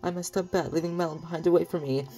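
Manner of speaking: high, loud, hammed-up Mario accent; bad Mario accent. Ranch owner who fell asleep fretting, in a bad Mario accent. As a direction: push a badly faked Mario accent high and silly. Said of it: "that was a really bad Mario accent".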